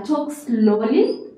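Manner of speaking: slow, stretched words; slowly. Shown as a demonstration. Teacher showing that you can reduce the pace, slowly. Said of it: "like reduce the pace".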